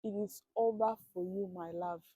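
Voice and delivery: soft mock-tragic resignation; hushed despair. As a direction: tell yourself it's hopeless, quietly. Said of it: "I say".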